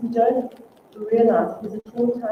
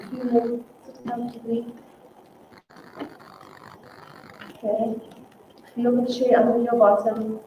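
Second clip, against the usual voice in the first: guided grounding exercise. Acted.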